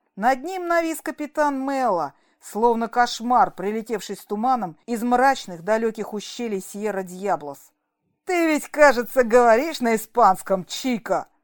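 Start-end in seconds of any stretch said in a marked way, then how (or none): 8.3-11.2 sneering, jeering, taunting mocking tone. A captain looming over a man asks him a mocking question. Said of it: "С издевкой осведомился он".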